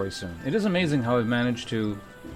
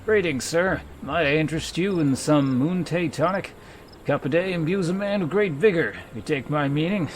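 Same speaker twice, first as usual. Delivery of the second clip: raised, salesy huckster pitch; stupid merchant voice; 4 semitones higher than usual. Acted. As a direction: hawk the tonic like a sleazy peddler. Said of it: "the stupid merchant voice".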